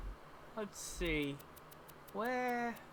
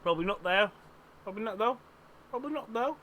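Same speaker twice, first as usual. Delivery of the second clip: put-on Cockney-Australian accent. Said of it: "I'm doing a mixture of Cockney and Australian".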